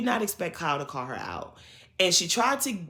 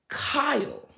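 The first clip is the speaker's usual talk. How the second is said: raised, drawn-out call of the name Kyle; calling his name; 6 semitones higher than usual. Pretend. Recap host calling out Kyle by name. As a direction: call out Kyle like you caught him.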